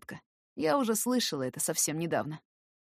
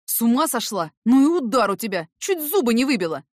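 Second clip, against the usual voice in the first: louder, shocked protest; loud, higher complaint; stunned outcry; 4 semitones higher, 8 dB louder than usual. A narrator's reading. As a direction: react to the slap out loud. Eric reeling from the slap.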